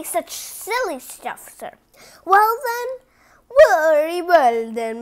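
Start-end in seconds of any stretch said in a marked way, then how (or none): 2.2-5.0 loud, higher call; loud theatrical reply; booming reply. Acted. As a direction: declare it grandly. Mister Knox replies.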